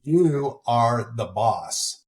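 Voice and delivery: very slow, drawn-out put-on accent. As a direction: stretch each word in a mock foreign accent. Puts on a slow voice after accent talk.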